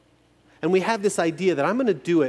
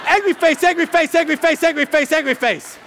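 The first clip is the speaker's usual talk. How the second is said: mock angry; 11 semitones higher, 7 dB louder than usual. Emoji list read out, mock angry.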